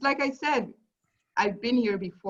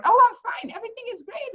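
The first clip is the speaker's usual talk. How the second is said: mock cheerful; 4 dB louder, faster than usual. Mocking her own fake cheerfulness.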